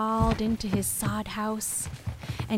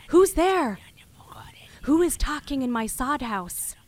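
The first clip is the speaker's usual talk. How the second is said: raised, higher challenge to an unseen intruder; hunter calling out; 4 semitones higher, 4 dB louder than usual. Acted. Hunter woken by voices in his sod house, calling out. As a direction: call out sharply at the start, then ease off.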